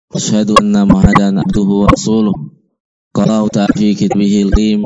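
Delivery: formal Friday-sermon chant of praise; khutbah recitation. Acted. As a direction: recite the sermon preamble steadily. Formal Arabic khutbah opening.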